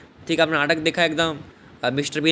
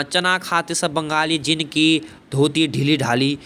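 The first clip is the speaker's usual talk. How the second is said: quoting the verse; slower than usual. Shown as a demonstration. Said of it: "ये जो बोल रहा है कि भाई".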